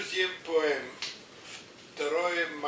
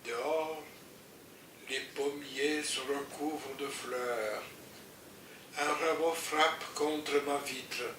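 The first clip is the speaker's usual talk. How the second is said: poem recitation; 4 dB quieter than usual. Acted.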